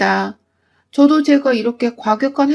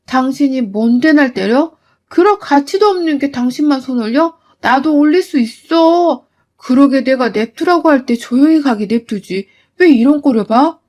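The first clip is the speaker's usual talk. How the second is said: furious defiance. Acted. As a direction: throw it back at the mother-in-law. 며느리가 시어머니에게 맞섬. (시어머니에게 큰 소리로 화내며 맞서는)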